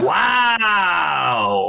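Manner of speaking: long drawn-out wow; real astonishment. Real, not acted. Guest hearing the actor was London-born, astonished. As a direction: stretch it out, amazed.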